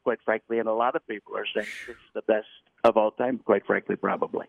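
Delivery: airy, lightly voiced Trump; a mild Trump brag; Donald Trump. Adding airiness, a light Donald Trump impression. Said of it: "that one becomes Donald Trump".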